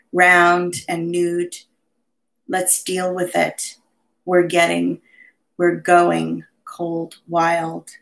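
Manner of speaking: measured poetry recital with deliberate stresses; live poetry reading, each image set apart by small pauses; poem reading. Acted. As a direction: read it as a poem, phrase by phrase. Reads own poem aloud.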